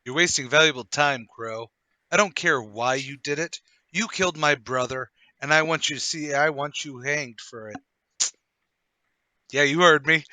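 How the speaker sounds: hard, menacing threat; bloodthirsty. Acted. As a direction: snarl it at the man who killed your brother. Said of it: "talking to our Mister Crow in that bloodthirsty manner".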